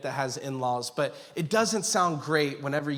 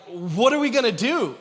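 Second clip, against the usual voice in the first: higher, louder retold worry; imitating worried wife; 5 semitones higher, 5 dB louder than usual. Wife who just found out she's pregnant, imitated worry. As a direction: lightly voice a worried wife's question. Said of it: "her first words, she was like".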